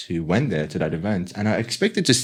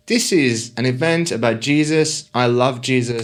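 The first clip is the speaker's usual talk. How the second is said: light Korean-accented imitation of the lecturer, a little higher; lightly put-on Korean accent, upbeat and friendly; 3 semitones higher than usual. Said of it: "Are you doing a Korean voice right now?".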